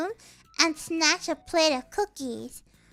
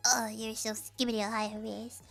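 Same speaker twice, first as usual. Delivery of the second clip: mock insult to coworkers; 7 semitones lower, 9 dB quieter than usual. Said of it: "and you're like".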